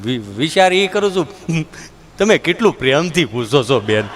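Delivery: low simple villager; dull villager. Retold or imitated. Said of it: "villager answer".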